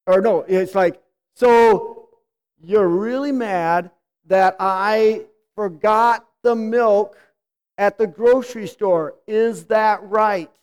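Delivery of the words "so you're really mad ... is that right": slow, drive-thru repeat-back; drive-thru style check-back. Shown as a demonstration. Spouse reflecting back like a drive-thru worker, slow and measured. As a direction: ask it back slowly like an order taker. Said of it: "borrow the line from McDonald's".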